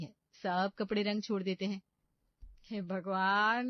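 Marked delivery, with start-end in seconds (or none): 2.6-3.7 "हे भगवान" drawn out slowly and loud, rising at the end of "भगवान"; dismayed cry to God. Acted. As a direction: stretch "भगवान" into a long, loud, rising wail. Mother-in-law sees ruined saris.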